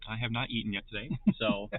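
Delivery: talking while chewing; chewing noisily. Real, not acted. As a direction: speak through a mouthful of food. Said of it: "excuse my chewing".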